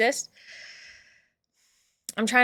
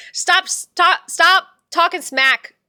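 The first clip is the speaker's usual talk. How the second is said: giggly, higher stop stop; laughing stop; 6 semitones higher, 3 dB louder, much slower than usual. Real, not acted. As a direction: laugh them off. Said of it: "laughing at chat".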